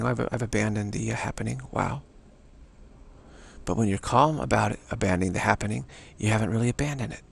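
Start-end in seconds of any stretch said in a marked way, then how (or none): 0.0-2.0 just note it calmly. Shown as a demonstration. Teacher shows students the calm way to say it. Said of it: "by just calmly saying".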